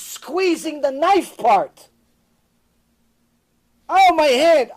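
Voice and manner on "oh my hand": put-on high, loud wail of a little boy; imitating crying toddler. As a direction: whine like a hurt two-year-old. Child voiced in story.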